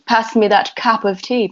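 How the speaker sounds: London accent, cup said like cap; light London accent with an open A in cup. Shown as a demonstration. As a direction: demonstrate a smooth London accent. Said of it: "they pronounce their U's as A's".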